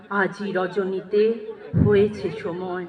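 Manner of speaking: low, soft, unhurried answer; tender monk. A narrator's reading. Monk telling the sick dancer he has come, tender and low. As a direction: reassure her quietly, closing the poem.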